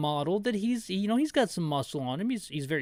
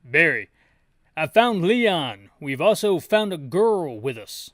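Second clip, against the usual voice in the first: loud radio report; 7 dB louder than usual. Acted. Barry on radio, urgent.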